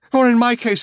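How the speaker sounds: high, broken drugged man; frail, drugged voice; drugged witness. Acted. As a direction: stammer it out dazed and weepy. Drugged man's held voice.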